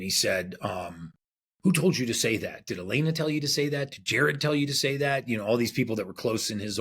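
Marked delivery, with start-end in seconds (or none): 1.6-5.3 retold anger. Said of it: "then he got mad".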